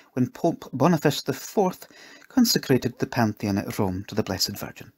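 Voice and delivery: a kindly cook explaining a feast day; slightly lifted, instructive character voice; lightly voiced cook.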